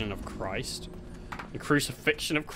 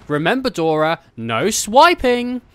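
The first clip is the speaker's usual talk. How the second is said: Boots voice; 7 semitones higher, 6 dB louder than usual. Acted. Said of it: "Boots is like".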